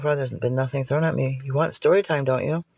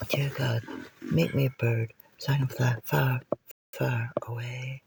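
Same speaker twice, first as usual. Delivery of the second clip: soft prayer; 2 semitones higher, 6 dB quieter than usual. Pretend. Mock prayer, fading to whisper.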